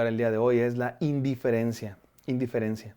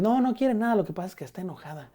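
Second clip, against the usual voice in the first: put-on boyfriend excusing her; 6 semitones higher, faster than usual. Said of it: "el novio le tiene que decir".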